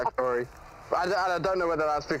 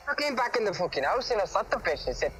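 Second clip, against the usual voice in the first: a light put-on Scottish lad accent, pitched up; a hint of Scottish pub banter, raised pitch; 4 semitones higher than usual. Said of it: "you sound Scottish".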